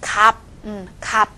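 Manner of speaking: 값 said kap, ending on a stopped p; left-consonant reading. Shown as a demonstration. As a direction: read 값 with the ㅅ silent. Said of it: "所以怎么读呢".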